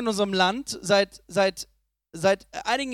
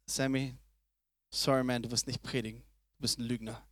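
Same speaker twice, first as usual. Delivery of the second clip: mock listener; 12 semitones lower, 11 dB quieter than usual. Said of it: "Wer von euch würde sagen".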